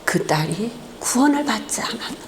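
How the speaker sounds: a grave, quiet, distant voice from above; voice of God. Retold or imitated. Pastor voicing God answering him at the funeral, softly and solemnly. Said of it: "주의 음성이 들려오는 거예요".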